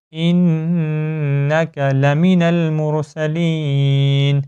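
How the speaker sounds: slow melodic tajweed chant; Quran recitation. Shown as a demonstration. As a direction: recite it slowly with ghunna. (قرآن کی تجوید کے ساتھ آہستہ تلاوت)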